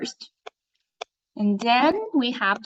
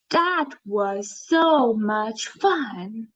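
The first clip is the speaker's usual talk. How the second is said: strong emotion read; much slower than usual. Shown as a demonstration. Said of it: "Can you hear the strong emotion in it?".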